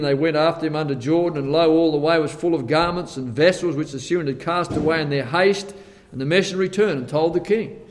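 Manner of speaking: brisk Bible reading; scripture reading. Acted. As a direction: read the verse straight through, quickly. Reads scripture aloud.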